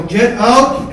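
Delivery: high, loud order; angry command. Retold or imitated. Mike ordering his brother from the car, loud and angry. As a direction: force the words out as a demand.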